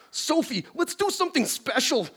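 high, hammy aroused professor; overheated nerd, played for laughs; lusty scientist voice. Plays Beekman.

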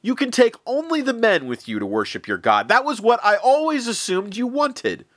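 mock him with loud high scorn; sneering. Pharaoh sneering at Moses's demand, loud high scorn. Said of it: "The Pharaoh sneered back".

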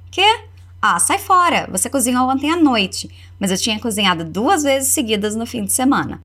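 put-on translating the girl's small flash of irritation; half-acted annoyance in Portuguese; mildly irritated. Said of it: "A garota se irrita um tiquinho de nada".

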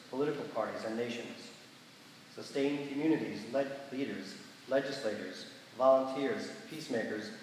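measured liturgical prayer voice; prayer reading. Acted. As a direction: lead the congregation in solemn prayer. Leads prayers of the people.

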